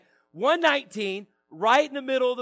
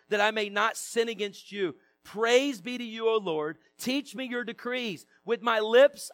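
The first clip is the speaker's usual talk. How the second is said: measured public Bible reading; scripture reading. Real, not acted. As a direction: read the psalm out to a congregation, phrase by phrase. Reads psalm aloud to congregation.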